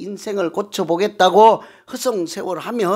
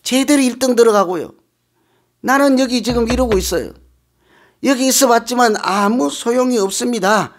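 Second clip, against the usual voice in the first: higher, whiny complaint; complaining sick man; 5 semitones higher than usual. Acted. (높은 목소리로 불평하는 병자)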